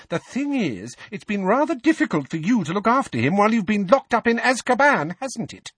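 high-pitched, cutting taunt; scornful. A narrator's reading. Mrs Weasley taunts Sirius for being locked up in Azkaban, scornful. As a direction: needle him scornfully, lip curled. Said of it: "her lip curling".

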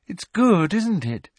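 beam with delight; happy. A narrator's reading. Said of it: "said Luna happily".

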